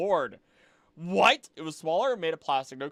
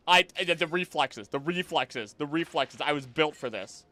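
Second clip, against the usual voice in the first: mock proud. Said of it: "Me saying reflexes".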